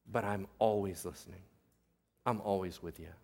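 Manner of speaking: low, very soft divine comfort; gentle reassurance. Acted. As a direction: reassure tenderly, hushed and low. Preacher voices God reassuring people.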